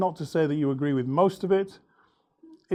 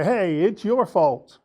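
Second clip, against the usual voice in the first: slow, slightly raised accusing voice; mildly loud blame; 2 semitones higher, 4 dB louder, slower than usual. Acted. Example of a late attendee blaming the organizer, mildly loud. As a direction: blame them out loud, slowly, without shouting. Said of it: "blame the organizer loudly".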